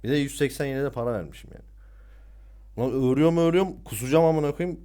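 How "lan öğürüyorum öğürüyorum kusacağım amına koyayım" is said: retching; gagging, fighting not to vomit; dry heaving. Retold or imitated. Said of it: "Kendimi kasıyorum böyle kusmayayım diye".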